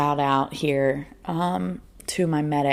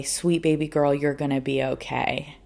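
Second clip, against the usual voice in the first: soft, softer reassurance; reassuring nurse; 5 dB quieter than usual. Retold or imitated. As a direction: comfort her like a nurse.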